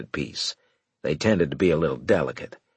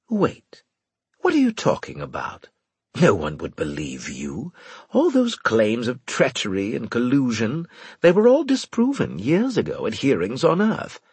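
alarmed officer voice; 4 semitones higher than usual. A narrator's reading. Winslade alarmed, sneaky retort.

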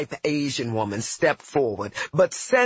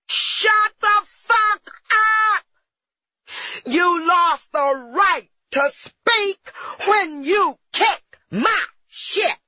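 slow, furious roar, much louder; 6 dB louder, slower than usual. Retold or imitated. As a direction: roar it at full force. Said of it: "I roared".

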